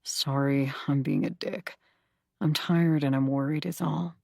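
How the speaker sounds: gently softened apology. Acted. Zach backing down with the counselor, softened and tired. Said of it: "he sighs and softens his tone".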